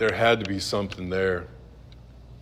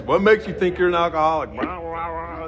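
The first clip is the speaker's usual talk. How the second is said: much higher, louder, rapid questioning; mock interrogators; 8 semitones higher, 5 dB louder than usual. Members firing questions, higher and pushy. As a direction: fire questions at him.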